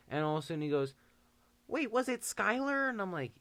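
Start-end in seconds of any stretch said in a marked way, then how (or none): 1.7-2.9 mock surprised girl. Girl realizes who it was.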